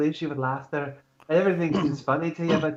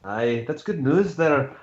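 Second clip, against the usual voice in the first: slow, easy Scottish brogue; Scottish accent; slower than usual. Acted. Knight answering a friend's news in Scottish accent. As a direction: warm Scottish lilt, taking your time. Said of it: "Can't handle your fucking accents".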